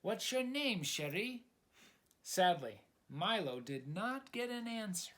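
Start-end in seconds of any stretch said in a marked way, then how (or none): 0.0-1.5 higher, eager call; excitedly. Acted. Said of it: "Calling out excitedly".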